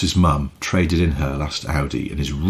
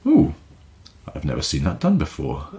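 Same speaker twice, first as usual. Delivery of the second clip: mildly imitating a calm instructor; unflustered calm; 4 semitones lower than usual. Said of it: "absolutely unflustered and just went".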